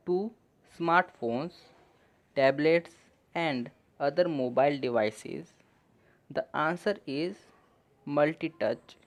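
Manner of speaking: slow, careful English reading for learners; slow reading aloud. Shown as a demonstration. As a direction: read each phrase slowly and clearly. Reads English passage slowly for learners. (धीमे-धीमे साफ़ अंग्रेज़ी पढ़ना)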